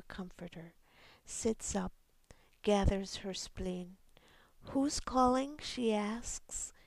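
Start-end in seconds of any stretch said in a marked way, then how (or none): 4.7-5.6 careful, sharp. A narrator's reading. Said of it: "careful now, sharp".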